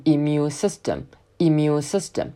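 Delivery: "immune" starting with a plain "ee" sound, not "in"; slow "immune system", open ee at the start; clear i vowel. Shown as a demonstration. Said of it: "注意它的第一个音不是in". ("immune"开头读成E的音，不是in)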